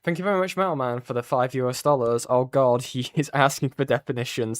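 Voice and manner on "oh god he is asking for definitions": laughing in disbelief; exasperated laugh. Real, not acted. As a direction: laugh while you complain.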